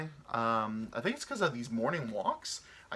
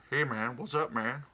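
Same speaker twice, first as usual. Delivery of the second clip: jive-talking goose. Acted. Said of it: "a jive talking black guy".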